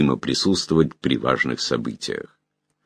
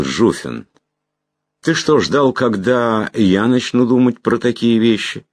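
put-on old man voice; 7 semitones higher than usual. Old magister speaks at table.

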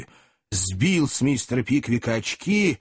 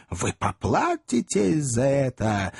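slow, gasping threat; out of breath; slower than usual. A narrator's reading. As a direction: threaten while short of breath. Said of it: "задыхался мистер Пиквик". (задыхаясь, с трудом)

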